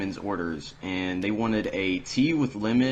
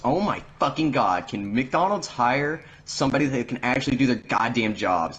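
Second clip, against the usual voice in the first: higher-pitched imitation of an exasperated complaint; mock customer griping; 4 semitones higher than usual. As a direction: gripe like an irate customer, retold. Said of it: "this old woman is bitching".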